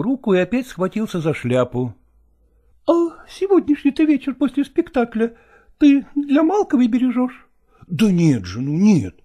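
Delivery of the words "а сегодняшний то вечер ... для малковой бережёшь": higher, needling jealous question; jealous young actress. A narrator's reading. Nastina suspects Lagorsky of Malkova, higher jealous needling. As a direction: needle him about his rival.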